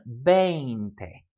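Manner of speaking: veinte with a long ei as in English vain; drawn-out model pronunciation. Shown as a demonstration. Teacher modelling diphthongs for students to repeat, drawn-out veinte. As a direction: stretch the vowel combination in veinte for repeating.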